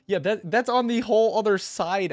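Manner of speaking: laughing through the words; amused disbelief, laughing high; cracking up at the elder's directions. Real, not acted.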